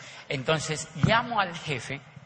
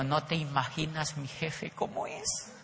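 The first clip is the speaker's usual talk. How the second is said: high squealing rapture over the boss; gushing with delight; 12 semitones higher, slower than usual. Retold or imitated. Wife gushing over her boss, high and thrilled. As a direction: gush about the boss like a fan. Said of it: "se le iluminaba la cara cuando hablaba del jefe".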